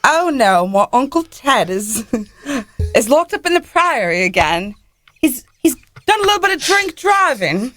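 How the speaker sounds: put-on American doing a playful British accent; mock-posh British storytelling, tipsy uncle tale. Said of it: "Do some more".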